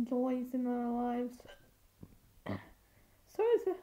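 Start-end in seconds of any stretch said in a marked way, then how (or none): 2.5-3.7 talking through hiccups; words broken by a hiccup. Real, not acted. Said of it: "sorry if I keep hiccuping".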